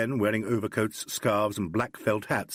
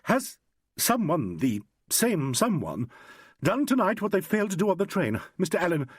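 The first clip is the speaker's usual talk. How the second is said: put-on higher, pressing, insistent young woman; urgent; 7 semitones higher than usual. A narrator's reading. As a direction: push the questions at him urgently. Carolyn voiced by narrator.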